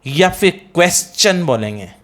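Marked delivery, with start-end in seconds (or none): 0.8-1.4 क्वेश्चन with s plus "chun" ending; correct pronunciation. Shown as a demonstration. Teacher offering students the alternative, correctly pronounced. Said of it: "चन होगा".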